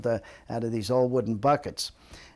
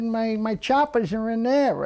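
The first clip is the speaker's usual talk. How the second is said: put-on fretful old man; 9 semitones higher, 4 dB louder than usual. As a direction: plead like an old man who lost his teeth. Old man explaining to lifeguard.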